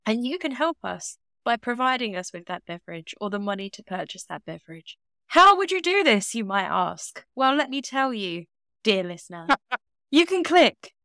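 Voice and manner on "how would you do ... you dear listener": mock narrator aside. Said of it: "mock narrator address".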